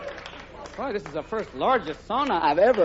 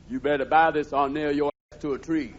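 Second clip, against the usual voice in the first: Mean Joe Green; 5 semitones lower than usual. Retold or imitated. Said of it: "Mean Joe Green advertising it".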